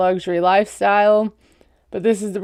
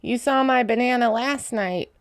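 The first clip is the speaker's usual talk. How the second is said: mock sexy-talk voice, softer; Gino; 3 semitones higher, 5 dB quieter than usual. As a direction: put on a creepy, quiet sexy-talk impression. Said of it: "like Gino's voice when he says".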